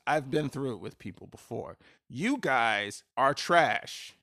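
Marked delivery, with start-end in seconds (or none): 2.1-4.1 slow, drawn-out scorn; real scorn at the health department; slow contempt. Real, not acted. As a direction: drag each word out in disgust. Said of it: "That was a whole rant".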